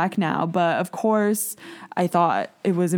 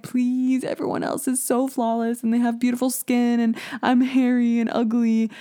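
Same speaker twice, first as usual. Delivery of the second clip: whiny pleading; 4 semitones higher than usual. Retold or imitated. Begging mom again.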